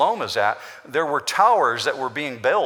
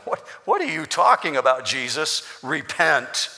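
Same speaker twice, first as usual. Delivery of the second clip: indignant crowd. Acted. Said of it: "hear the crowd churning in their mind".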